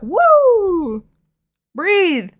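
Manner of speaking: high, loud excited yelp; yappy overexcited burst; hyper squeal. Retold or imitated. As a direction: bounce it out like a hyper little dog. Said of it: "I call it Chihuahua energy".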